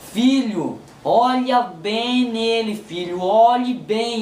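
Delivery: palavras bem espaçadas, vogais alongadas; Deus falando devagar. Retold or imitated. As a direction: imitate God slowly instructing a son. Fala de Deus ao filho. (Deus falando pausadamente)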